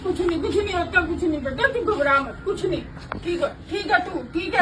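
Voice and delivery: put-on softly reassuring a frightened child; soothing. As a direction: hush and comfort gently. Mother soothing her frightened son.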